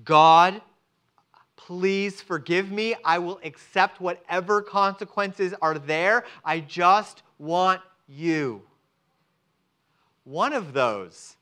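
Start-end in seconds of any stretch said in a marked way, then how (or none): 0.0-8.6 humble prayer. Pretend. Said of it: "and you saying".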